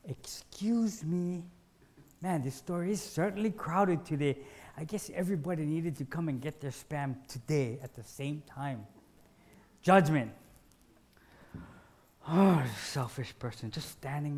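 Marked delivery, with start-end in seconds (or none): 0.0-8.9 sweetly polite shopper easing past a stranger; most polite voice. Acted. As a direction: ask to pass as gently and politely as you can. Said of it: "in my most polite voice".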